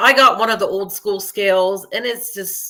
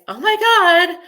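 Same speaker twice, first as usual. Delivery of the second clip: mock panic; 8 semitones higher than usual. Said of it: "everybody thinks".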